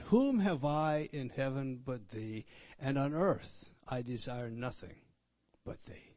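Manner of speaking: slow devout recital fading to a whisper; reciting scripture. Real, not acted. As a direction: savour each word of the verse. Reciting a psalm verse.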